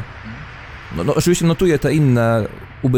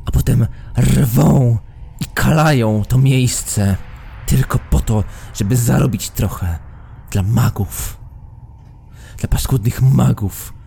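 stern guardian, indignant. Acted. Guardian rants about the mages.

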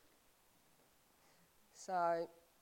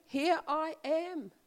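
slow prayer; 4 semitones higher, slower than usual. Shown as a demonstration. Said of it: "That's all your prayer has to be".

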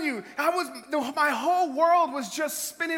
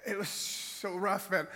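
choking up; 3 semitones lower than usual. Real, not acted. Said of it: "I thought I was gonna lose it here".

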